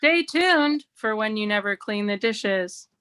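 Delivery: smooth news anchor teaser; newscaster voice. Shown as a demonstration. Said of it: "talk like this, during arguments".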